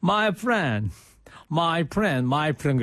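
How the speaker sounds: lightly imitated English in a Gyeongsang accent; English words with a Gyeongsang dialect lilt. Retelling a senior singer pleading with US immigration, Gyeongsang accent. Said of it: "그래가지고 이 경상도 사투리로".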